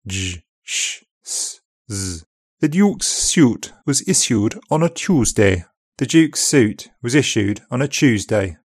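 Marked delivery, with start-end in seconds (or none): 2.6-5.7 upper RP accent. Shown as a demonstration. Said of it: "Consonant plus e is pronounced instead of".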